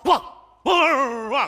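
mock woof woof; dog barking. Man proving he owns the dog, mock barks. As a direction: bark like your dog does. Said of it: "狗都像你这么叫啊".

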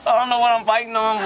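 surprised. Real, not acted. Bit on something hard.

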